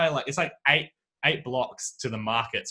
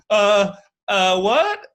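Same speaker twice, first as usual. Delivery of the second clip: startled husband; 9 semitones higher, 8 dB louder, much slower than usual. Retold or imitated. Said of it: "he was like".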